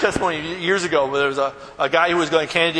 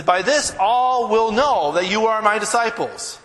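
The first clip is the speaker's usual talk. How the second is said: slow emphatic quote; 4 semitones higher, 3 dB louder than usual. Acted. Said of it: "he says".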